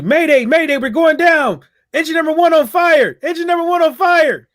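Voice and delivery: high, urgent pilot distress call; mayday radio call. Retold or imitated. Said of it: "You gotta do it in the Dutch accent".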